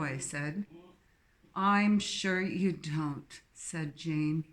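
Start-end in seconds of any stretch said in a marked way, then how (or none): 1.5-3.4 very slow, snobbish English put-down; snide posh English. Acted. Jane belittling Sophie in a slow, snide posh English accent. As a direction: drawl each word out with disdain. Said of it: "peppered with exaggerated snobbery".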